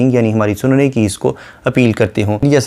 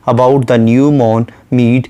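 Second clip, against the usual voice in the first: very slow, measured poetic reading; a lightly recited line of poetry; slow poem recitation; much slower than usual. Shown as a demonstration. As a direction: draw out each word of the verse.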